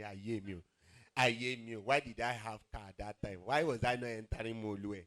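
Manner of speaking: mock lament. Imagined lament of unrecognized passenger.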